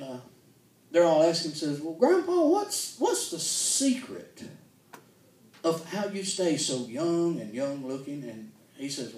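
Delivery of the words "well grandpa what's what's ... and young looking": put-on child's question. Grandchildren asking grandpa.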